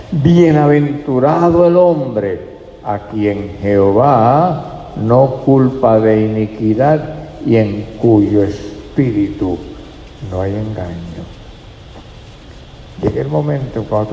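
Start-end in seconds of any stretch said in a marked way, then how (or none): 0.1-11.2 very slow, deliberate reading of the verse; slow scripture reading. Shown as a demonstration. Preacher reading the psalm aloud to the church, very slow. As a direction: draw out every word of the psalm. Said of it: "Así que dice".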